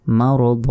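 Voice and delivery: মারদ with its final vowel held open; one-alif pause ending. Shown as a demonstration. Teacher shows the stop, মারদ with a long open last vowel. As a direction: lengthen the end of মারদ, dropping the n. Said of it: "এক আলিফ টান দিতে হবে".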